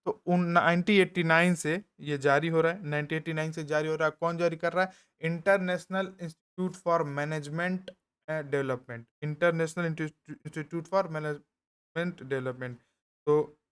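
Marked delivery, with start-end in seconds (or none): 5.2-12.8 the English name stretched out word by word; slow dictation. Shown as a demonstration. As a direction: say the name slowly for notes. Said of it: "dictating the institute's name slowly". (संस्थान का नाम धीरे-धीरे लिखवाते हुए)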